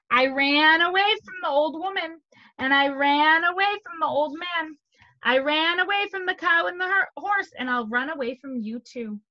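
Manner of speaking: high, loud lilting list, settling at the end; storybook boast with rising swells; boasting gingerbread man. Acted. Gingerbread man boasts while running.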